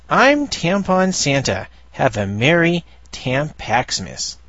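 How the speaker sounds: a light jolly Santa greeting; Tampon Santa voice. Acted. Reading a comic panel aloud, slow mock jolly Santa. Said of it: "behind him it says".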